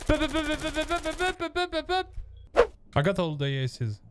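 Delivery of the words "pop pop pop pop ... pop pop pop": bruitage de tirs à la bouche. Retold or imitated. Imite des coups de feu.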